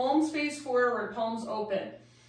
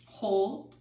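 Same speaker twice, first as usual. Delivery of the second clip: normal talking voice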